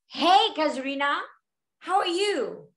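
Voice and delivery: easy, friendly hello with a lift; friendly greeting. Shown as a demonstration. Teacher modelling how to be friendly, friendly greeting. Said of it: "How to be friendly?".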